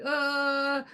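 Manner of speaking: slow, rising reluctant okay; sheepish admission. Retold or imitated. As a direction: admit it grudgingly. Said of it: "I'm kinda going like".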